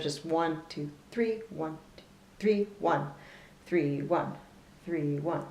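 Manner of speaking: rhythmic counting of beats in threes; teacher counting in three-beat groups. Shown as a demonstration. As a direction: count one two three, leaning on each one. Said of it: "I tend to think of it as".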